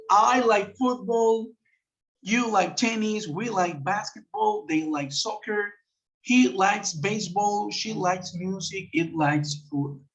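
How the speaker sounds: slow, carefully spaced English examples; slow model sentences. Shown as a demonstration. Teacher reading examples slowly to the class. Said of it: "Aquí estamos empleando el verbo like".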